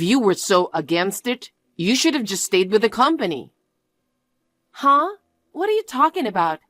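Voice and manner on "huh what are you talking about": high, fast, stunned retort; can't believe what she hears; shocked disbelief. Acted. Fiancée hears the blame shifted, shocked and fast.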